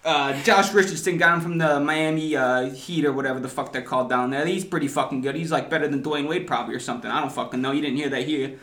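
mock Philly fan running down the roster; Philly accent. Fan lists the new players, mock Philly accent. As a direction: talk up the team in put-on Philly. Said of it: "give it to us in your best Philly accent".

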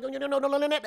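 put-on high, nasal old man saying no; grandpa up in his nose. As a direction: push the "no, no" up into the nose. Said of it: "it's up in his nose".

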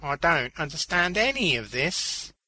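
high moan of bewilderment. A narrator's reading. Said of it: "Beaners moaned".

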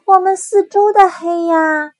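high, loud cub voice; a small cub pleading about the dark; little bear voice. Acted.

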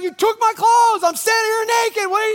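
half-hammed indignant yelling at the thief; mock livid. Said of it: "Now Truth is livid".

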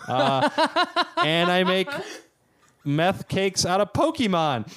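high, loud, rushed panic; frantic. Real, not acted. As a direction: scramble for an answer. Rushing before timer runs out.

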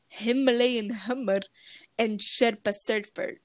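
put-on light, slightly slowed Indian accent on the raft names; mock Indian accent. Kid presenting ride facts to a friend, in a light mock Indian accent. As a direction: slip into a half-hearted Indian accent. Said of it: "Why I did that accent?".

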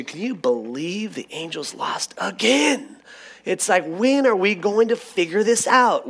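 mock exasperated fan venting to a buddy; playful disbelief at another loss; sports-fan rant. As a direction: act out griping about the team, pitch climbing. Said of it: "I immediately go into sports".

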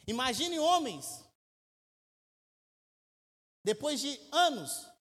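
slow and loud, leaning on each word; drawn-out pulpit emphasis; emphatic preaching. Acted. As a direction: preach it slowly for weight.

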